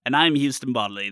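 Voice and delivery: put-on old-timey radio voice. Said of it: "I'm on an old-timey radio right now".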